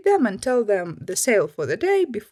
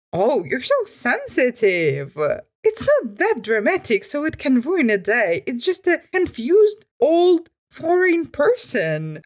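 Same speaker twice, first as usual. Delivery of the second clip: mock dismissive commenter; 3 semitones higher than usual. Mocking imagined commenter.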